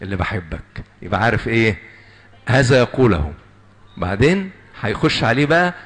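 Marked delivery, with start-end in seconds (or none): 0.0-0.8 a soft, gentle father's voice; gently. Shown as a demonstration. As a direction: take him gently, father to son. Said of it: "لازم ياخده بشويش كده". (الأب يكلم ابنه بهدوء وحنان)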